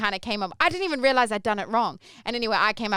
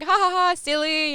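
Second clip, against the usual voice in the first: forced laugh; 8 semitones higher, 4 dB louder than usual. Retold or imitated. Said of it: "I kinda laughed it off".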